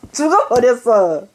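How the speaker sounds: Jeolla accent, falling ending; Jeolla dialect. Shown as a demonstration. Mother repeats her death-notice demo, Jeolla dialect. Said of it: "전라도는 그렇게 하더라".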